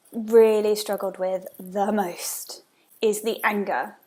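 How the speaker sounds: slow hushed whisper on "anger"; whispered confession. Real, not acted. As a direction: admit it under your breath, slowly. Confessing her hardest emotion.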